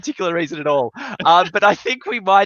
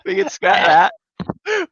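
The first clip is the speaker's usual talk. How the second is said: slow, high and loud; high drawn-out; 8 semitones higher, 4 dB louder, much slower than usual. Acted. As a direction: stretch it out up high. Repeats line, second take plain.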